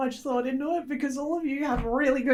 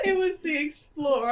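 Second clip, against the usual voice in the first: laughing. Real, not acted. Repeats line laughing.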